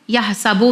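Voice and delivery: "यह सबू" ending loosely as sabo; wrong vowel ending. Shown as a demonstration. Teacher showing another mistake, "यह सबू" with an o sound. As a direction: say "यह सबू" with bu turned to bo. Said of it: "भी नहीं पढ़ना है".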